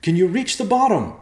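loud, high yell down a hole; high-pitched distant shout. Acted. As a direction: yell it down to someone far below. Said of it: "Ben yelled into the hole".

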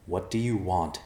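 calm, even question; composed, in a normal voice. Acted. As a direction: ask it without alarm. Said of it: "Evercloud asked calmly".

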